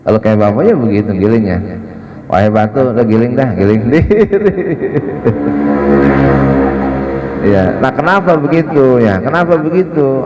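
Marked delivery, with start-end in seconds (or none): 2.3-4.5 joking command to the stone. Pretend. Imagined Prophet telling the millstone to grind alone, playful and raised. 4.6-7.4 long amused laugh at his own joke. Real, not acted. Preacher laughing at his grinding-stone joke, long laugh.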